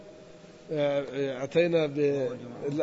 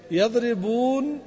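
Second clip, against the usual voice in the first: slow demo; 4 semitones higher, much slower than usual. Shown as a demonstration. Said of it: "الآن سنحذف إيش؟".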